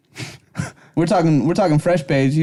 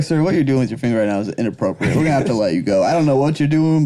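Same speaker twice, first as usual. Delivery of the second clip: stern security guard; 4 semitones lower than usual. Acted. Guard kicking someone off island.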